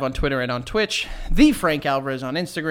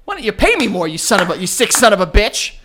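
mock outrage; 3 semitones higher, 5 dB louder than usual.

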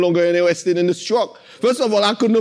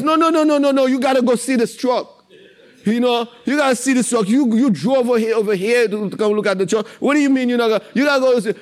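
insistent seller; 4 semitones higher, faster than usual. Retold or imitated. Seller insisting he see truck.

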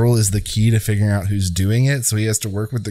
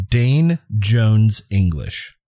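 no inflection; much slower than usual. Shown as a demonstration. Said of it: "read these with no inflection".

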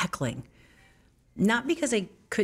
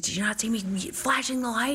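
retold angry boss; 5 semitones higher than usual. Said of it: "He said".

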